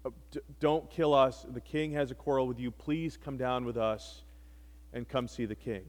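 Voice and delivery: soft, humbled begging that keeps fading; humble plea. Retold or imitated. Kneeling captain begging Elijah for mercy, soft and humble. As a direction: plead quietly for mercy from your knees. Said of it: "He falls to his knees and says".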